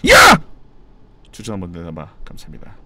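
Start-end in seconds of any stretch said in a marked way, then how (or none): 0.1-0.4 sudden piercing yell, much higher and louder. Real, not acted. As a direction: blurt it out at the top of your lungs. Sudden outburst mid-game.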